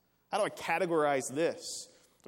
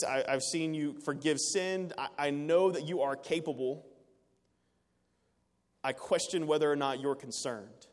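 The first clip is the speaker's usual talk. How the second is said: a hint of an anxious plea to Jesus; desperate prayer. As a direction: disciples pleading with Jesus in the storm, mild anxious plea. Voicing disciples' prayer in storm.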